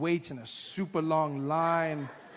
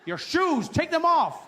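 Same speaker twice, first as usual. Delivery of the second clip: high, loud rising order; mock guard yelling at a traveller; barking guard; 9 semitones higher, 6 dB louder, slower than usual. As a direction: bark it at a confused traveller. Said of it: "I'm like".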